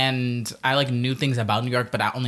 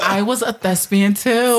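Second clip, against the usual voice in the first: excited; 7 semitones higher, 5 dB louder, slower than usual. Real, not acted. Excited shared thespian reveal.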